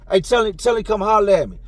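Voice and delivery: mimicked shout-out to a cellmate; calling out. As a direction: call out a message for someone else. Calling through the cell door.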